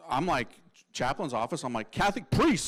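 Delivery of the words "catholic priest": brief mock holler, only mildly raised; retold yell. Calling into the chaplain's office, mildly yelling. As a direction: replay the yell at half strength. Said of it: "So I yell it out".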